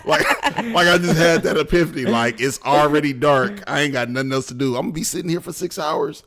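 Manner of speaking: high, loud re-enacted disbelief; worked-up comic retelling; animated realization. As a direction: blurt it out high and loud, reliving the moment. Relives sudden realization, after laughing.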